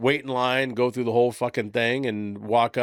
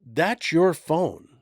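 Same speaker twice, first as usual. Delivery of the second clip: slow explaining; 4 semitones higher, much slower than usual. Retold or imitated. Kid explaining slowly to dad.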